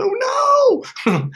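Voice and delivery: mock wail. Viewers who dumped narcissists, a hammed-up crying wail. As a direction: wail it like a hammed-up cry of despair. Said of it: "I know you're probably going".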